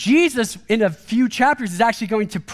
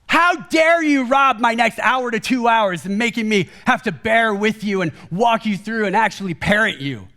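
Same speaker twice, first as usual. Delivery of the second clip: half-shouted mock outrage; a hammed-up how dare you; mock outraged rant. Pastor voicing his inner rant at a toddler, mock outrage. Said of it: "and now I'm talking to myself".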